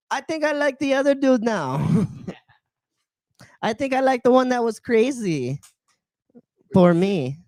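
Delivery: high, put-on Latina accent. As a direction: quote her in a Latina accent. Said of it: "disregard the Latina accent".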